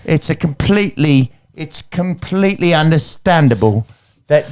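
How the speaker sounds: lightly voiced Gillian Anderson, American accent, barely shifted; a faint American accent as Gillian Anderson, reassuring Otis; Gillian Anderson impression. Mum character reassures Otis about his bowling, light American accent. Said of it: "that's me doing Gillian, um, Anderson".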